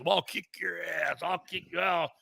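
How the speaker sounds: put-on belligerent drunk. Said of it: "a couple Rambos".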